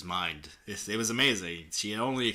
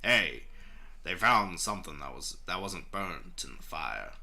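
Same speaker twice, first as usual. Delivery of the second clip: put-on country boy accent; 3 semitones lower than usual. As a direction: attempt a country boy's twang. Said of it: "I'm gonna keep doing it".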